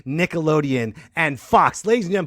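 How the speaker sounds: booming game show host; big hype announcement, build up; announcer intro. Acted.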